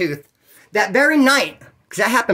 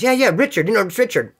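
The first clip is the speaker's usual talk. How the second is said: higher-pitched imitation of an impostor; Richard impression; 4 semitones higher than usual. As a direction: insist on the false name in a borrowed voice. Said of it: "he said it a couple times".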